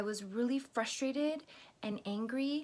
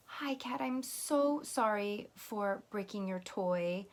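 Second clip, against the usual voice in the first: sincere, gently earnest apology, demonstrated; meaningful apology. Shown as a demonstration. Apologizing to Kat for breaking a toy, sincere and remorseful. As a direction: apologize as if you really feel bad. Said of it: "that was much more meaningful".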